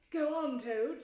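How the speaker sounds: high, eager urging. Acted. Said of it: "immensely interested".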